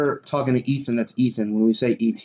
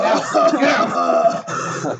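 yelling; 8 semitones lower, 3 dB louder, much slower than usual. Pretend. Friends mock-yelling at redhead.

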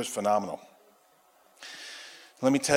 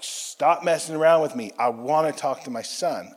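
higher, louder insistence, retold; retold exasperation; 5 semitones higher, 5 dB louder than usual. Patient tells techs to let him call his son, exasperated. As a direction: push back firmly, recounting the argument. Acted argument with medical techs.

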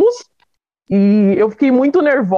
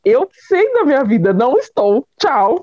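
higher-pitched, emphatic brush-off; indignant denial; 5 semitones higher than usual. Retold or imitated. Patient refusing the doctor's pregnancy news, indignant. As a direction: deny it firmly, then cut it off.

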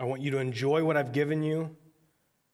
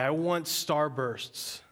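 whiny demand; much slower than usual. Retold or imitated. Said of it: "And we say".

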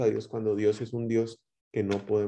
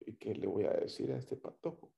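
shocked mother's thought; 3 semitones lower, 12 dB quieter than usual. Retold or imitated. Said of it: "la mamá queda como".

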